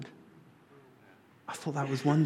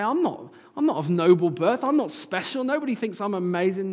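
anguished self-doubt; 6 semitones higher, 5 dB louder than usual. Acted. Voicing a self-doubting believer.

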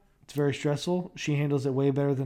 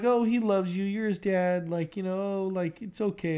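imitating wife; 5 semitones higher than usual. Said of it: "Kayla's like".

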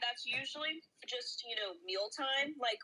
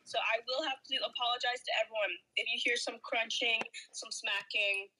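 mouth full. Real, not acted. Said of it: "I'm currently having a snacking segment".

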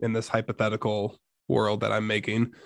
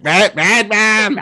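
put-on high, loud, drawn-out child-possession voice; Tony from The Shining; 9 semitones higher, 8 dB louder, much slower than usual. Podcaster mimicking the boy in The Shining, high creepy chant. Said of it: "when he was doing that".

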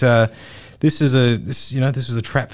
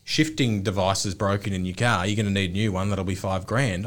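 pretend mechanic; 5 semitones lower, 4 dB quieter than usual. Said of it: "if someone said to me".

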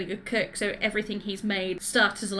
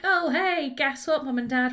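mock casual announcement; 3 semitones higher than usual. Imagined announcement to parents.

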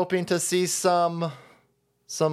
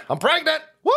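high squeal; 12 semitones higher, 4 dB louder, faster than usual. Acted.

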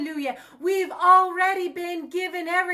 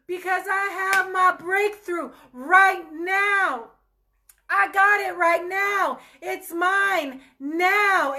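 higher, slow, sure claim of breakthrough; excited faith; 3 semitones higher, slower than usual. Shown as a demonstration. Preacher rejoicing alone over her breakthrough, excited. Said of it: "I'm gonna get myself excited".

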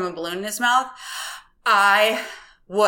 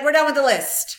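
higher and louder with excitement; excited, laughing; 8 semitones higher, 5 dB louder than usual. Retold or imitated. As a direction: burst out eagerly, laughing. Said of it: "I'm like".

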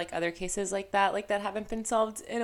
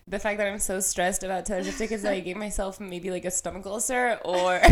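blocked nose. Real, not acted. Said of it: "I can't breathe out of my nose".

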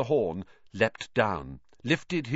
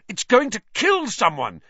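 loud, much higher panicked shout; 11 semitones higher, 7 dB louder than usual. Acted. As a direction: cry out in alarm. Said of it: "he shouted".

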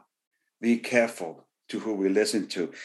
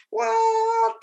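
sudden squeak of disbelief, much higher; a shocked, high-pitched "What?" to the congregation; incredulous what. Acted. Preacher to congregation, mock astonished high what. Preacher reacts to Caleb's boldness.

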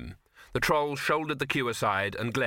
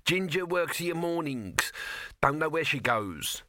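squeaky; 5 semitones higher than usual. Acted. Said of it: "he squeaked".

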